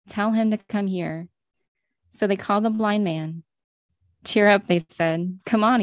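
measured Bible reading with pauses between phrases; scripture storytelling; story narration. A narrator's reading. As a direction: read the story aloud, unhurried, phrase by phrase. Reads the Bible story aloud.

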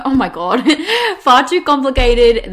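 real giggles breaking through the words; laughing. Real, not acted. Podcast host thrown by a hiccup mid-sentence, laughing.

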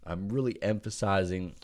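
words stretched by a yawn. Real, not acted. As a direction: talk through a yawn. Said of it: "yawning while, while I'm talking".

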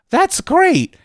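high, sing-song mock cheer; mock enthusiasm. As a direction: fake a bright yes. Mock cheerful reply to God.

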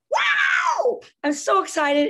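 very high, loud squeal of delight; child squealing over a reward; mock excited. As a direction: ham up the thrilled kid getting a reward. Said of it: "And I go".

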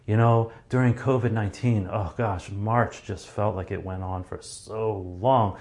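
long, slow, flat-toned telling; slow monotone. Shown as a demonstration. Speaker demonstrating a slow drawn-out delivery. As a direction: drag the words out to show time dragging. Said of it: "You see how I was so long and slow and monotone".

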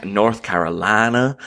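put-on slow drawn-out southern belle accent. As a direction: draw out North Carolina like a southern belle. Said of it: "That's just my impression of, like, a southern, southern, a southern belle".

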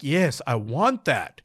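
slow, emphatic eager yes; a touch of acted eagerness; mildly acted excitement. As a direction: lean on each word with longing. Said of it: "starting to feel a little bit excited".

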